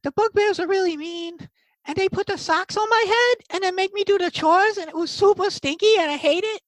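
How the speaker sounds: very high little goblin voice; Boogers. Acted. Goblin telling how bugbears mistreated him, little goblin voice. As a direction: complain like a scared, put-upon goblin. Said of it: "he's got a little goblin voice".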